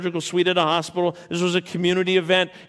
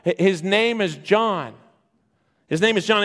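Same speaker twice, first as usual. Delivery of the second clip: insistent, higher-pitched interruption; firm interrupting objection; 3 semitones higher than usual. Acted. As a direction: cut in firmly to object. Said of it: "Elizabeth interrupts and says".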